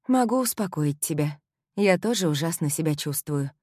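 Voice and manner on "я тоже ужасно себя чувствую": ordinary delivery, nothing marked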